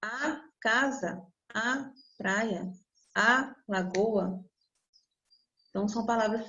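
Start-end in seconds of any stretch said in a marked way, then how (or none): 0.0-4.4 each feminine a set apart slowly; slow down and lean on each a; stressed article a. Shown as a demonstration. Teacher spelling out the a before each noun, slow and stressed. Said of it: "pra ter um a".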